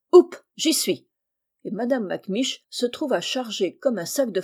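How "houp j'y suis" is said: high, loud hoisting call; effortful heave-ho. A narrator's reading. Carter lifting the limp woman onto his back, effortful heave-ho. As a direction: heave it up with a quick loud cry.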